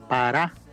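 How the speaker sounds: "parábola" broken after a held RÁ; stress on second A of parábola. Shown as a demonstration. Preacher teaching where the accent goes, "parábola" with marked RÁ. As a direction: lean on the second A, pa-RÁ, then "bola" in "parábola". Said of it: "Usted le pone acento en la segunda A".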